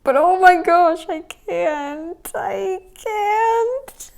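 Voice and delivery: high laughing squeal; can't stop laughing; laughing disbelief. Real, not acted. Laughing disbelief at candy diet.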